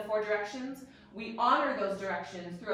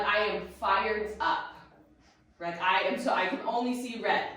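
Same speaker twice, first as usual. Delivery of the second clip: acted fired-up outburst, a bit louder; mock fired-up; 4 dB louder than usual. Teacher quotes someone who only sees red, mock fired-up. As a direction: play someone all fired up, pushing the volume. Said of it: "being a very fiery personality".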